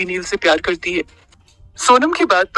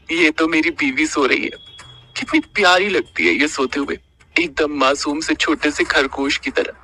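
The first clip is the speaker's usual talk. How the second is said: tender smile. Acted. Husband gazing at his sleeping wife, slow and tender. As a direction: murmur fondly over someone asleep. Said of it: "एक प्यारी सी मुस्कान के साथ कहा".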